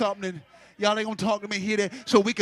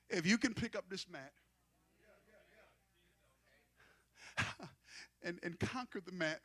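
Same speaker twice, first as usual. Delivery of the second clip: quiet; 3 semitones lower, 14 dB quieter than usual. Acted. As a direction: hush it down for Jesus' words. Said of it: "And Jesus said".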